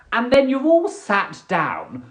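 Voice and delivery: ordinary delivery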